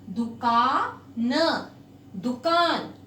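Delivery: "दुकान" read very slowly, du then kaan; syllable split. Shown as a demonstration. Teacher reading "दुकान" slowly so pupils can split it. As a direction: break "दुकान" into two parts. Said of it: "break करके".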